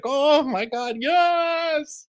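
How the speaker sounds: high loud delighted squeal; gleeful shriek over reality TV drama; mock glee. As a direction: squeal it like you can't believe it. Her own gleeful reaction retold.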